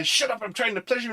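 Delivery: high, quick mock line from the film; quoting Richard. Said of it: "and he's like".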